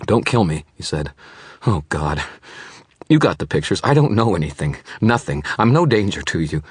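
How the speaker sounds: high, loud pleading; frightened man pleading not to be killed; shaking voice. Acted. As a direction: beg for your life, voice shaking. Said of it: "tried to keep his voice calm, but it was shaking".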